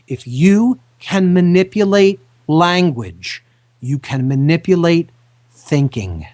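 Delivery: slowed down, each word placed carefully; slow and deliberate. Shown as a demonstration. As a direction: spell it out slowly so they listen. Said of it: "listen to this very carefully".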